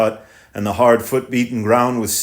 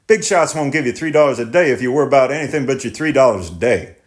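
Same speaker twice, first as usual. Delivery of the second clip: driver, raised and insistent; 4 semitones higher than usual. Acted. Driver lectures tenant.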